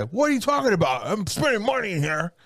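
high, put-on indignant white guy; white guy protest. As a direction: voice the drunk buddy as an offended white guy. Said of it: "He's a white guy".

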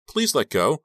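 high, loud begging; urgent, frightened appeal; desperate plea. Acted. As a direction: beg to be released. Captive begs to be released.

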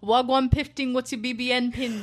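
mock London street accent; playful imitation of British rap talk; British rapper slang. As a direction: put on a British roadman accent. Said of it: "making all of the British rappers".

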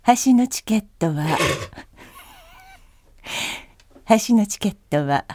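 slow, measured in-flight announcement; airplane announcement. Shown as a demonstration. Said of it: "飛行機アナウンス風で。".

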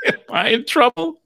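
lightly voiced worried man; high timid voice. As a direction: ask it like a nervous kid. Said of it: "Voice is so high".

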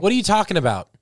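Nikki. Pretend. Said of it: "I'll be Nikki".

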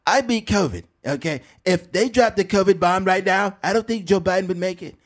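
measured, emphatic presidential parody; Donald Trump. Acted. President boasting about China's balloon, Trump impression. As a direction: hold forth in self-satisfied bursts. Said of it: "funny thing about Trump is how he".

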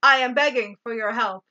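mock wooden line reading, evenly delivered; emotionless. Imitating the queen begging on her knees, emotionless. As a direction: plead with no feeling at all. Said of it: "I feel nothing. I am dead inside".

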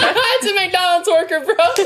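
high, stretched-out jeer; mock gawking. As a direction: imitate a gawker hooting at a worker. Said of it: "it's like".

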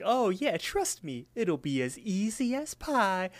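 high, drawn-out cartoon sales pitch; Promise Pie. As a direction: coax them as a high-voiced talking pie. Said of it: "the pie's like".

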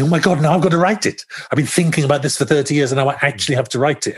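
mock-panicked thinking aloud; mildly terrified. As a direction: relive the dread of a looming deadline. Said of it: "it felt terrifying".

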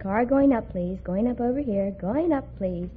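sweet. Retold or imitated. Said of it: "smile and very sweetly try to be very sweet".

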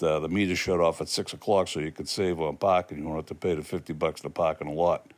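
Boston accent. Real, not acted. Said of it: "quintessentially Bostonian driving directions".

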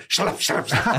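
whispery, voiceless flapping sound; quick wet slapping noise made with the mouth; imitated slapping noise. Joking about the noise he would make, imitated slapping sound.

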